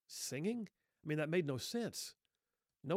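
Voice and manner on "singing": singing asked back with a high rise; puzzled question, pitched up; incredulous echo. Acted. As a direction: repeat it as if you can't believe it. Echoes the word in disbelief.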